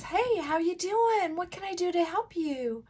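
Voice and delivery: fake high phone voice. Shown as a demonstration. Coach demonstrating the fake high telephone voice. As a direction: overdo the squeaky cheerful helper. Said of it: "when we go up like this".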